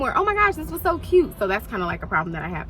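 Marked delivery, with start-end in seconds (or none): 0.2-1.4 gushing reaction. Retold or imitated. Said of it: "I really can't run out and be like".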